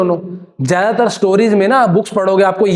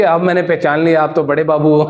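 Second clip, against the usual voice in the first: filmi dialogue; 3 semitones lower than usual. Shown as a demonstration. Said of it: "फिल्मी dialogue है मतलब ऐसे".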